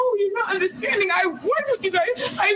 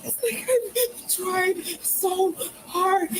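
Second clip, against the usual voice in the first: crying; slower than usual. Real, not acted. Distraught woman in police stop.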